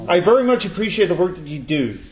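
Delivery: put-on a light American accent while reading the email. Host reading an American fan's email, in a mild American accent. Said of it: "do you want me to do the accent?".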